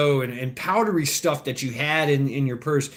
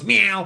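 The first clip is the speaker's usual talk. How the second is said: cat meow; 4 semitones higher, 3 dB louder than usual. Retold or imitated. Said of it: "The cat goes".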